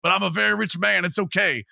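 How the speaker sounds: lightly voiced mock football player; mock Cole Beasley. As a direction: play the smug player brushing it off. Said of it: "and be like".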